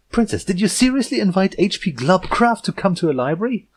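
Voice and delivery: leaning hard on seriously; agitated panic. Acted. Yearling confronting the princess, loud agitated disbelief. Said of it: "extreme agitation, verging on panic".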